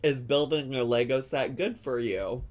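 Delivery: loud, high gleeful quoting, building to a laugh; excited retelling. Retold or imitated. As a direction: shout it with joy and laughter. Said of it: "She said".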